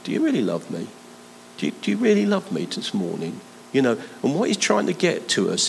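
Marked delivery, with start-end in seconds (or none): 0.0-3.4 more intense. Shown as a demonstration. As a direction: push the question harder, lean on really. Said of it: "The second time it was a bit more intense".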